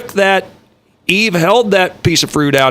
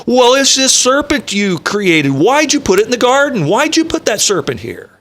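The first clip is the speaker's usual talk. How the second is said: higher, faster pleading excuse; mock Eve excuse; 9 semitones higher than usual. Eve blaming God for the serpent, higher and whiny. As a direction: shift the blame in a whiny high voice. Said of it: "then God turned to the woman".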